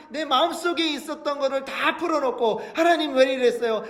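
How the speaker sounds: ordinary talk, nothing marked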